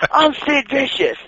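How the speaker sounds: bad wrestler promo. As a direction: drag out the name like a clumsy promo. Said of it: "equally bad promo".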